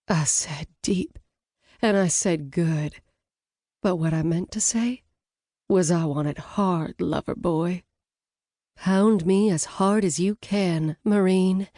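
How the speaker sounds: a touch of a sultry command; husky brunette. Acted. Brunette demands of Blaze.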